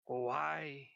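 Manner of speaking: slow, eerie voice from the darkness; a voice out of the dark, drawn out slow; dark whisper behind you. Acted. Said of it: "hear a voice in the darkness".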